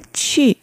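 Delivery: 去 as "chü" with rounded lips; 去 said as Mandarin "qù". Shown as a demonstration. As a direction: round the lips tightly for 去, falling tone. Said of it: "口を丸めて発音しま".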